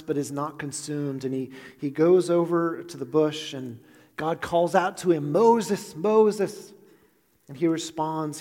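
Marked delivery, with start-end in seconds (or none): 5.3-6.7 loud, higher call of a name. Acted. God calling to Moses from the burning bush, loud and raised. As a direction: call across the distance to him.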